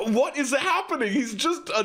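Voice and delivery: amused, high, laughing question; giggling what is going on; laughing disbelief. Real, not acted. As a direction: laugh through the confusion. Laughing at clip of ordinary guy.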